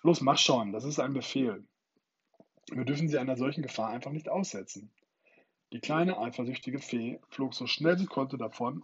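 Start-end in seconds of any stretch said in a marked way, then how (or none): 0.0-4.9 forceful command, loud on the first words; urgent order. Acted. Peter ordering the fairy to lead the children, urgent. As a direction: push her to go now.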